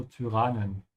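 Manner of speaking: Tyrannen with the y said as German Ü; Tyrannen, its first vowel an Ü. Shown as a demonstration. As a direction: round the lips for the y in Tyrannen. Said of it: "pronounce it with a bit of an Ü".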